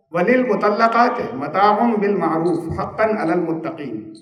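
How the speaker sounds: slow, measured Arabic recitation; Quranic recitation. Shown as a demonstration. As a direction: intone the verse slowly like scripture. Quoting a Quran verse.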